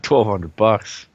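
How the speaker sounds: slow smug price quote; drawn-out greedy seller; salesman voice. Retold or imitated. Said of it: "they're gonna be like".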